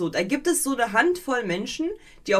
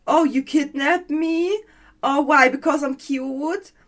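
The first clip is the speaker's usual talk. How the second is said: mock cutesy victim; 5 semitones higher, 4 dB louder than usual. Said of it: "wo halt einer sagt so".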